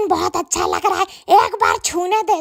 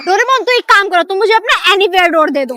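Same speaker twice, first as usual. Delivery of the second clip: put-on pleading kid; 4 dB louder than usual. Kid asks Doraemon for gadget.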